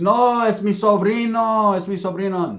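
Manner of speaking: lightly imitated, drawn-out protest; protesting aunt. Aunt protesting to her boyfriend.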